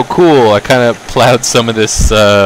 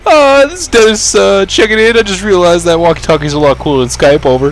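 walkie-talkie voice; 10 semitones higher, 5 dB louder than usual. Pretend. Walkie-talkie radio roleplay.

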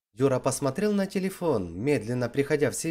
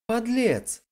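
sharp angry cry, clearly higher; angry hiss; 9 semitones higher than usual. A narrator's reading. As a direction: spit the insult at him in anger. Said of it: "Зло прошипела она".

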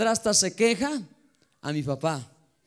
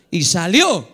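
ordinary delivery

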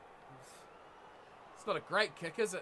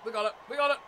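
excited shouting; 2 semitones higher, faster than usual. Real, not acted. Gamer cheering rugby game.

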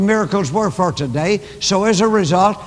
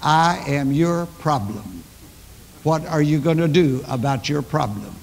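lightly voiced man daring you to help; defiant beggar; 3 semitones lower, 3 dB quieter than usual. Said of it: "as if to say".

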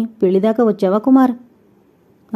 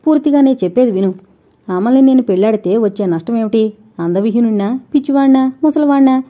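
defiant insistence; 2 semitones higher than usual. Acted. Kumar talking over Sridevi, fast and raised. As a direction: push on over her objections.

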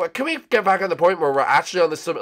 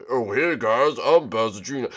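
lower, manly intro voice; acting like a man; 5 semitones lower than usual. Bowser Junior redoing his intro to the guys, acting like a man. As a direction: put on a manly, lowered greeting. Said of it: "try to act like a man now".

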